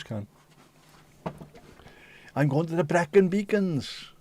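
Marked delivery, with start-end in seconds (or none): 2.3-4.1 mock English tourist. Mocking English speaker.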